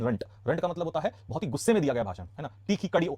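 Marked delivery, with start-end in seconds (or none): 0.0-0.2 रंट with a short "uh" vowel; correct pronunciation. Shown as a demonstration. Teacher repeats the right form after correcting, रंट with short "uh". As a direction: say रंट to rhyme with "hunt". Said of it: "रेंट नहीं".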